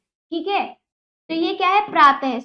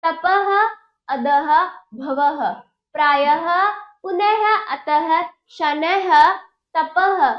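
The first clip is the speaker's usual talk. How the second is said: clear, slightly raised drill voice, one word at a time; call and repeat; 2 semitones higher, slower than usual. Shown as a demonstration. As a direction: lead the class through the list word by word. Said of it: "मेरे साथ करिए".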